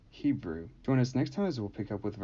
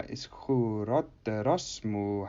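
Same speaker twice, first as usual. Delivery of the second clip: "iskuroterosmu" slowly, with a second stress on os; double-accent demonstration; 3 dB louder, slower than usual. Shown as a demonstration. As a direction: give "iskuroterosmu" two accents, the later one on os before mu. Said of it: "receiving the os accent from mu".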